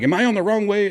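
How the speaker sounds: retold panic. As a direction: blurt it out in acted alarm. Retold panic about wrong way.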